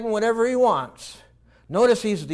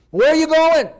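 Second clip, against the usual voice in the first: high, loud alarmed question; alarmed objector; 9 semitones higher, 8 dB louder than usual. Acted. A worried elder confronting the departing son, alarmed. Imagined objector to son's plan.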